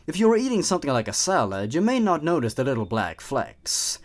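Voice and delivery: teasing, menacing hidden creature; sinister creature voice. Acted. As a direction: toy with the listener like a predator. Creature narrates as poison.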